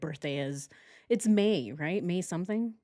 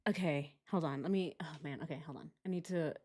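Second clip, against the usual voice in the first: muttering to self; 4 semitones lower, 12 dB quieter than usual. Real, not acted. Muttering while logging in.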